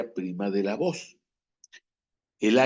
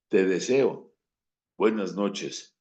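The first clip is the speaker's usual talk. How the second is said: sarcastic goodnight; 4 semitones lower than usual. Shown as a demonstration. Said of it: "que decir".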